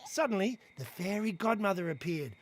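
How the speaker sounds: normal talking voice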